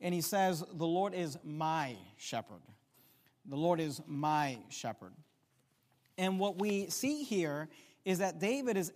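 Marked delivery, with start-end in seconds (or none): 0.7-2.6 "my" held out before shepherd; stress on MY. Shown as a demonstration. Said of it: "David here uses an intimate word". 3.4-5.1 "my" singled out, ending on a fall; stress on MY. Shown as a demonstration. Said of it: "David here uses an intimate word".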